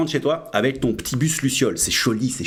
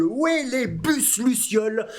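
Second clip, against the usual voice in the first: sarcastic; 8 semitones higher, slower than usual. Pretend. Sarcastic mock enthusiasm.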